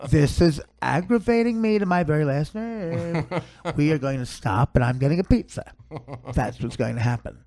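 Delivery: lightly voiced petulant son; mock-aggrieved son making threats; put-on voice of a fed-up son; son imitation. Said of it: "that's how he talks".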